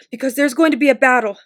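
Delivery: quick, loud and anxious. A narrator's reading. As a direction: urge them fast, worried about the battle. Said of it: "said Sam anxiously".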